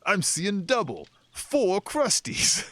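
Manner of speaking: high, drawn-out dazed voice; high slow dopey voice. Retold or imitated. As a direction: stretch it out like a dazed goon. Acting out confused goon.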